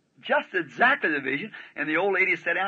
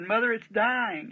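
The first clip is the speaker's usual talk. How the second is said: retold anguished cry; 8 semitones higher, slower than usual. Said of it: "she started screaming like that".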